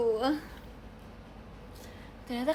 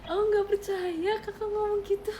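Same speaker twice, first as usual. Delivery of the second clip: loud mock gasp of hurt; mock shock; 7 semitones higher, 5 dB louder than usual. Reacting to a viewer's hate comment, mock shocked. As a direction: pretend to be wounded by the comment.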